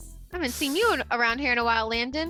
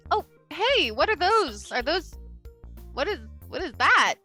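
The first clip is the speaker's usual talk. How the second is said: higher, curious double take; surprised; 5 semitones higher than usual. Acted. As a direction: sound startled and puzzled. Juan does a double take.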